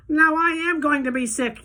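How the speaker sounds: very high, loud wail; desperate yell. A narrator's reading. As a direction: wail in queasy despair. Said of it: "yelled Missus T V".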